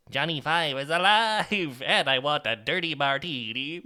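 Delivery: a hint of Johnny Five's voice. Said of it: "I could do the Johnny Five voice".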